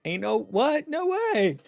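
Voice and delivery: loud, high-pitched disbelief; incredulous outburst. Acted. Marcus's inner reaction to the pair, incredulous outburst. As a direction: blurt it out, scandalised. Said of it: "he wants to say, like".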